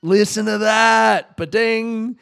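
loud, slow and delighted; excited. Real, not acted. Vlogger showing viewers the app, excited. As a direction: show off the sound with glee.

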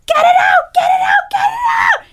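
very high, shouted mock labour scream; retold shrill scream. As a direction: shriek it like a panicked woman giving birth. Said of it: "to scream, like, murder scream".

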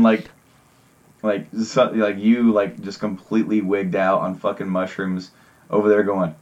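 ordinary talk

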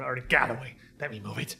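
low voice dropping to a whisper. Acted. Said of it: "you hear a deeper voice".

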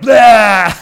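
loud shouted blah, all at once; mock outburst of pent-up words; explosive blah. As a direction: spit it out like everything bursting free. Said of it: "it all came out like".

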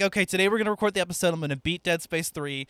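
quick, psyched-up resolve; determined pep talk. Retold or imitated. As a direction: hype yourself up. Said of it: "So I finally am like".

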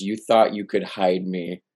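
lightly imitated deep superhero voice; a hint of a gravelly vigilante growl, retold; Batman. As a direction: quote the hero with understated menace. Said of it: "his deep, like, gravelly Batman voice".

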